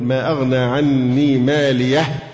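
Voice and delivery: slow, ending "مالية" on an audible breath of air; breathed final ha. Shown as a demonstration. Teacher showing students the whispered ha of silence, slowly. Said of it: "يعني تقول".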